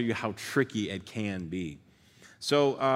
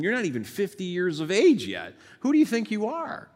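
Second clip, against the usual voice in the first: higher and louder, rising to an outraged shout; indignant challenge; 10 semitones higher, 5 dB louder than usual. Retold or imitated. Crowd confronting Jesus over Abraham, outraged and shouting. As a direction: throw the question back at him in disbelief.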